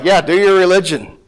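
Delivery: dismissive mock approval; a scoffing yeah, go on then; sarcastic shrug in the voice. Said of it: "this is all sarcasm".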